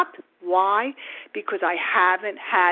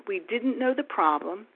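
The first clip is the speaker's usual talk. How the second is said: whispering; 5 dB quieter than usual. Real, not acted. Drops to a whisper.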